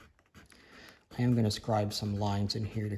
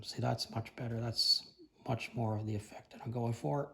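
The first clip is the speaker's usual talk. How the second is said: hoarse voice. Real, not acted. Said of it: "I'm losing my voice a little bit".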